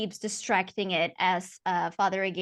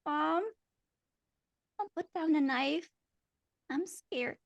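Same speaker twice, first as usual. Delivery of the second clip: higher, quiet trembling plea; a frightened little girl begging; scared child; 8 semitones higher, 4 dB quieter than usual. Acted. Ashley pleading with her mother, scared. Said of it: "And she says".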